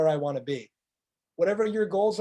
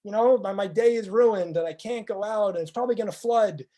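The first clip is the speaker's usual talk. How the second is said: grumbling; 3 semitones higher than usual. Retold or imitated. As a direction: whine that the day is ruined. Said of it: "the person who hates the rain".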